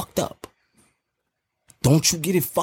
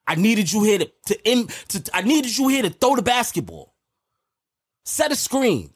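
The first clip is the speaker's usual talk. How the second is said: exasperated, higher-pitched rebuke; real mad; 5 semitones higher than usual. Real, not acted. Host berating his co-host for not helping, mad. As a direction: scold him, voice riding up. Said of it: "look how mad you getting".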